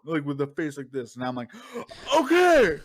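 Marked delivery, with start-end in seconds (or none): 2.1-2.8 loud, high-pitched alarmed reply; startled yelp. Retold or imitated. Shopper backing away from screaming stranger, startled mock yelp. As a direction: blurt it out, badly thrown.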